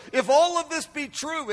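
high, fervent prayer; crying out. Acted. Preacher voices John praying to Jesus, crying out. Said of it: "this is John crying out".

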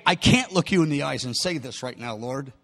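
low, softened confession; ashamed reluctance. Acted. Peter unable to face Jesus, ashamed low murmur. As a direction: shrink back, dropping pitch and volume. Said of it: "look me in the eyes".

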